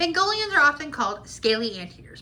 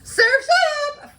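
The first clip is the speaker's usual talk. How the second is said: high, loud surf call; surfer shout; 8 dB louder than usual. Acted. Surfing penguin greeting everyone with a high, loud yell. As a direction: yell it like catching a wave.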